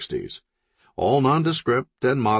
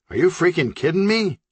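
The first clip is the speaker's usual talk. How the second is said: incredulous; 9 semitones higher than usual. A narrator's reading. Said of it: "said the ninja leader".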